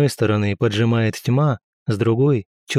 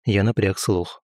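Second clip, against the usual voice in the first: ordinary delivery, nothing marked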